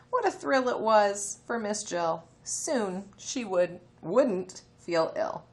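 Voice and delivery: slow, careful read-aloud for early readers; reading to children. Acted. Teacher reading a phonics story to her class, slow. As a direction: read it slowly so little ones can follow.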